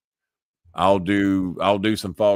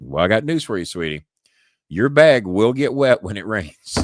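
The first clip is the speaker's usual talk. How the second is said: mock patronizing; 2 semitones higher, 4 dB louder than usual. Host teasing the girl about her bag, mock patronizing. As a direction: tell her plainly like a know-it-all.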